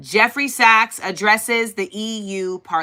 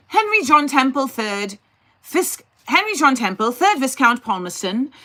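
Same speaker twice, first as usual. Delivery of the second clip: lightly put-on British accent, a bit higher; 3 semitones higher than usual. Shown as a demonstration. Streamer reading Palmerston's name to chat in a mock British accent. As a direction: try a mock posh British accent on Henry John Temple. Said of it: "I'll read it in a British accent".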